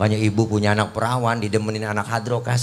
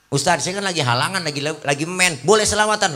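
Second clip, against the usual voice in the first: woman's question; 5 semitones higher than usual. Retold or imitated. Woman asking the preacher.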